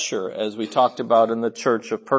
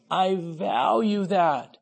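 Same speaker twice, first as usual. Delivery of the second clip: tender approval; 6 semitones higher, 4 dB quieter, slower than usual. Acted. Voicing the Lord's approval again.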